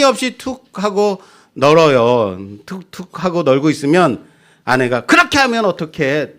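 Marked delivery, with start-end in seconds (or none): 5.1-6.3 a lightly voiced nagging wife, a bit higher; scolding wife. Wife scolding husband over hanging laundry, mild mock nag. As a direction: play the wife chiding, only lightly. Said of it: "라고 나무래요".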